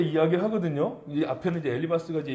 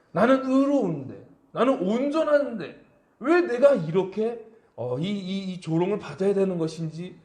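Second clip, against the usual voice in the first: indignant protest. Retold or imitated. Job protesting his mockers, mildly indignant. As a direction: protest the injustice, hurt. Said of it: "정말 화가 나는".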